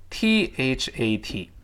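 that drawn out with a released t; slow full form. Shown as a demonstration. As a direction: say that slowly, sounding the final t. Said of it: "读慢了叫". (that慢读，t发出来)

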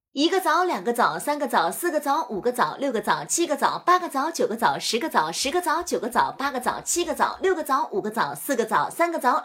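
lively rhythmic recitation; tongue twister drill. Shown as a demonstration. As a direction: count the dates with bouncing pitch. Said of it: "将数枣练习连做三遍".

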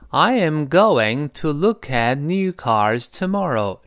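slow, every word sounded in full; careful slow teaching pace with "going to" in full; slow read-through. Shown as a demonstration. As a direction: read it slowly for learners to follow. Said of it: "这是慢慢来读啊".

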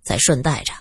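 mumbling through a full mouth; talking while chewing food. Acted. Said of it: "嘴里塞得满满的，含糊不清地说".

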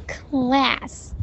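class slowed with a held L; slow demonstration of class with dark L. Shown as a demonstration. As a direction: stretch the L in class. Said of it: "把那个L，dark L发好".

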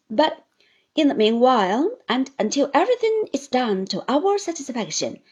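loud, deliberate terms; firm Traddles. Acted. Traddles sets terms for Uriah, firm and loud. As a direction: lay down the law.

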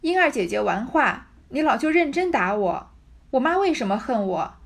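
put-on girl protesting while crying to the old woman. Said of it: "哭道". (委屈地哭诉，声音高而大)

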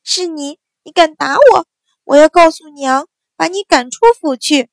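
high, loud tearful wail; crying shout. A narrator's reading. Fallen sister screaming accusations, high tearful shout. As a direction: wail it out like a spoiled child on the floor. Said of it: "大声哭叫".

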